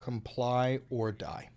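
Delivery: slow unvoiced sinister whisper; menacing whisper. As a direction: breathe the threat slowly. Whispered ICE slogan.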